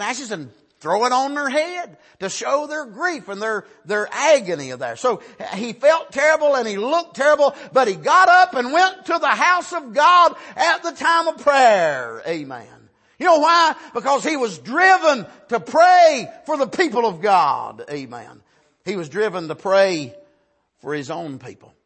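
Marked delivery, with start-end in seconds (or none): 5.0-12.2 loud, high, emphatic preaching; full-force preaching. Real, not acted. 13.2-17.8 loud, high, emphatic preaching; full-force preaching. Real, not acted.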